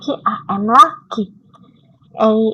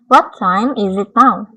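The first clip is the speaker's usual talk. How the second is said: slow, a little louder, each word clear; slow model reading; 4 dB louder, slower than usual. Shown as a demonstration. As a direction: drill it slowly for the class. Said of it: "Yang keempat". (dibaca pelan dan lantang)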